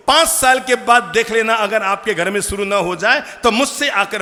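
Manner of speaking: sermon climax, loud and impassioned; fiery preaching. Acted. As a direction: thunder the warning at the congregation. Preaching warning at full force.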